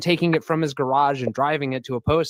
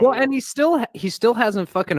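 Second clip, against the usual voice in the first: laughing; 8 semitones higher than usual. Real, not acted. Laughing while starting to speak.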